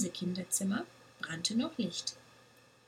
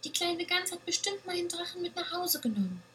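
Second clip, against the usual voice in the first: excited whisper; 9 semitones higher, faster than usual. A narrator's reading. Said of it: "rief die kleine Ziege aufgeregt".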